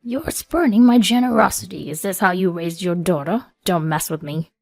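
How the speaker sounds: yelled. A narrator's reading. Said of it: "he yelled".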